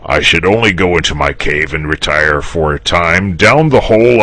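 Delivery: pleased with himself, sure he'll win; smug dragon. Acted. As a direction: dragon bragging that he'll outlast the knight. Dragon's speech, character voice.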